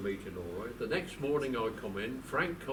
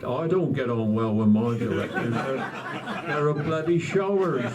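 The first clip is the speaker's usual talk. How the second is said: retelling the manager's jab, laughing through it; a chuckling, mock-grumbling aside; laughing quote; 2 semitones higher, 8 dB louder than usual. Quoting Clough with a laugh.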